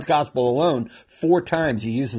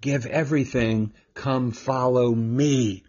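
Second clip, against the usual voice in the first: Jesus calling; slower than usual. Acted. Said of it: "Jesus says to the rich young man".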